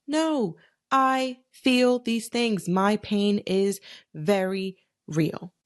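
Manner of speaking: slow, deliberate reassurance to yourself; firm self-affirmation. Retold or imitated. Talking to herself after being hurt, slow and firm. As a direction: say it slowly like you finally believe it. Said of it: "you have to reaffirm to yourself".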